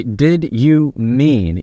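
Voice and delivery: Did drawn out slowly, each word spaced; slow, deliberate question. Shown as a demonstration. Coach demonstrating the key question, slow and even. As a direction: ask "Did you mean?" very slowly. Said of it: "When you say".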